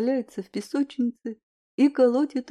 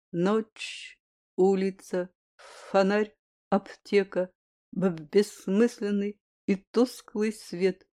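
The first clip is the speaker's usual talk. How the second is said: halting, stuttering recitation; stammering; slower than usual. Acted. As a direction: stumble over the first sounds. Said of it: "Чуть заикаясь, пробормотал".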